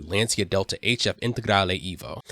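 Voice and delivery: put-on a light Italian accent on the car name. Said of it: "like my Italian accent on that one".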